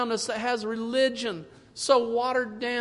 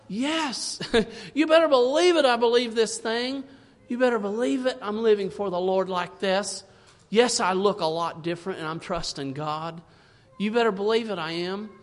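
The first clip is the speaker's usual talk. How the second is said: bold declaration; 3 dB louder than usual. Pretend. Voicing a bold believer's declaration.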